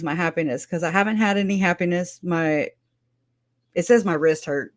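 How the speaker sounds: lightly mimicking an excited mom; imitating mom's excited voicemail. Daughter imitates her mom's voicemail for a friend, mildly excited mimicry. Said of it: "She's like".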